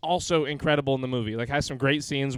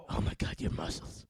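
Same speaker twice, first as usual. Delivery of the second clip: whispered swoon; 9 semitones lower, 7 dB quieter than usual. Acted. Batman swooning, breathy.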